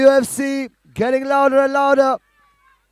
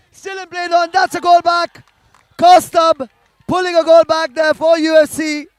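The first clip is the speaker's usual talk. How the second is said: rising, louder as the ball goes in; commentator's quick burst of joy at a goal; excited goal call; 4 semitones higher, 4 dB louder than usual. Real, not acted.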